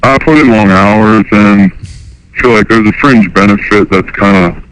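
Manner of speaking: caller voice through a pitch-changing harmonizer; electronically disguised phone caller. Real, not acted. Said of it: "so his voice is disguised".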